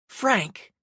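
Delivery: huffed out of breath. A narrator's reading. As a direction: puff the name out winded. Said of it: "she huffed".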